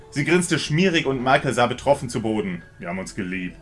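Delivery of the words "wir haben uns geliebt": very soft, low, barely there; almost inaudible whisper. Acted. Michael confesses the affair, nearly inaudible whisper. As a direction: breathe the confession out so it hardly carries. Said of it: "flüsterte er beinahe unhörbar".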